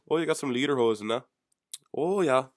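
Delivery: bad German accent, high and loud; hammed-up, inexact German accent; mock German accent. Joking about a German Shepherd herding people, hammed-up German accent. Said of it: "That's not a German accent".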